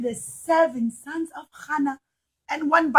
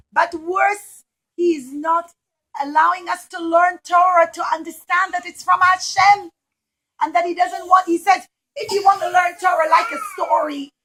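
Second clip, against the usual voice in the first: higher, louder urgent outcry; alarmed protest; 5 semitones higher, 7 dB louder than usual. Acted. Sons protesting the king's decree, high and urgent. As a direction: cry out in alarm.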